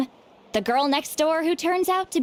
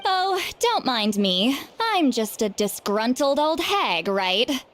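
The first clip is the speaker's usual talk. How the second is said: sarcastic; slower than usual. Acted. Overheard, sarcastically repeats the insult.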